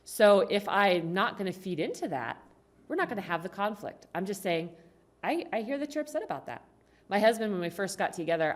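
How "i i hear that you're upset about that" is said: calm validating. Acted. Models non-defensive reply to attacker.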